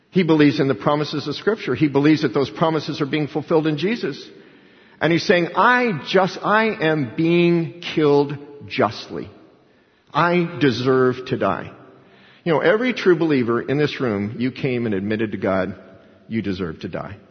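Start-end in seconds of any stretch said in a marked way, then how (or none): 5.5-11.7 slow, broken-down admission of guilt; humble confession. Acted. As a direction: let each word weigh like a confession. Thief confessing on the cross.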